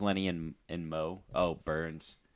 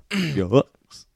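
Goofy voice; 4 semitones higher than usual. Shown as a demonstration. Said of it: "we can do that one".

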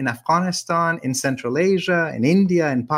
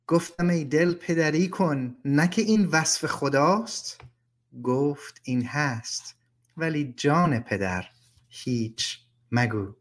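brisk recited lines sinking softer to a hushed close; persian poem recitation; 3 dB quieter, faster than usual. Acted. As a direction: read the verse, fading out on the refrain.

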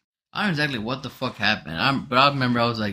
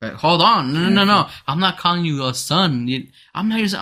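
flustered protest; 5 semitones higher, 3 dB louder than usual. Retold or imitated. Acting out his hasty protest.

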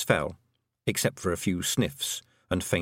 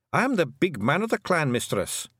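high Scottish clan chief, nervous; a worried wee chief addressing the hag; Rob Anybody voice; 6 semitones higher than usual. A narrator's reading. Rob Anybody nervously introducing himself to Tiffany, high Scottish.

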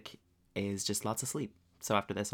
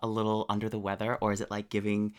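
blocked nose from a cold; stuffed up; 2 semitones higher than usual. Real, not acted. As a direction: talk through a stuffy nose. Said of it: "weirdly stuffed up".

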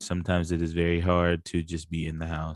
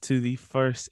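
showy welcome; 6 semitones higher, slower than usual. Acted. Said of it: "Do it again, do it again".

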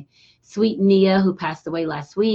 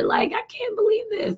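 retold whisper. Whispered aside in retold scene.

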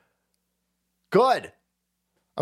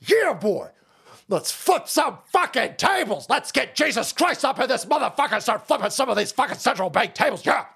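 higher, hyped mock battle cry; hammed-up pumped Christians; 7 semitones higher than usual. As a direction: play a revved-up churchgoer ready to fight. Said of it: "Christians going".

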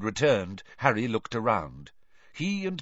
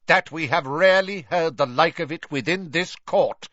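raised stern judge voice; louder; 7 semitones higher, 5 dB louder than usual. A narrator's reading. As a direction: drown out the boy. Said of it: "speaking more loudly".

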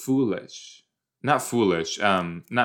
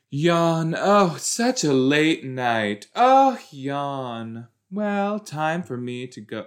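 mock yawning; 4 semitones higher, slower than usual. Mocking a sleepy character.

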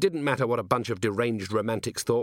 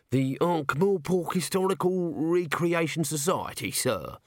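higher, mildly reproachful corporal; a shade hurt, pitched up; Nobby reproachful; 7 semitones higher than usual. A narrator's reading. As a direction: correct the boss with a small sniff. Nobby corrects Vimes.

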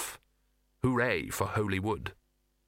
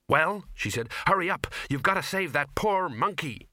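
urgent shout; 6 semitones higher than usual. Acted. Ginger urging Victor on.

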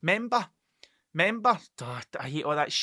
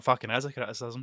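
shouted indignant comeback; mock retort; 4 semitones lower, 3 dB quieter than usual. To his wife after her podcast remark, a shouted indignant retort. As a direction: bark it back at her, laughing.

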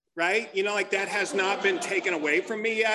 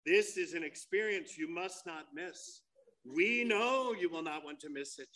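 commercial voice-over; 5 semitones lower than usual. Acted. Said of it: "you hear this voice coming".

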